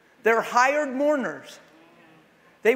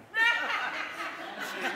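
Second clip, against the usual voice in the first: mock laugh; 6 dB quieter than usual. Acts out parodied healing scene.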